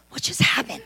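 breathy laugh of disbelief; stunned half-laughed whisper. Retold or imitated. Left alone in the room, laughing in disbelief.

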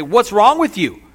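loud, high, drawn-out scolding; mock berating from way up high. Jesus scolding Peter from the surface, berating loudly. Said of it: "start to berate him".

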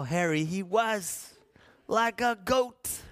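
laughing. Real, not acted. Laughing at hairy hands.

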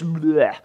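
comic "bleh" spit-up; mock vomit noise. Fish spitting Jonah onto the coast, comic retching. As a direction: imitate spewing something out, quickly.

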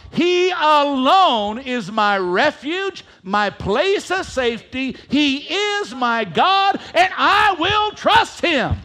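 slow, loud, proclaiming every word; loud declaration. Shown as a demonstration. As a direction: declare it with full conviction. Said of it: "Say it like you really mean it".

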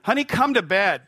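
sweetly calling the wife to bed, hammed up; sing-song call to wife. Husband calling his wife to bed, high sing-song.

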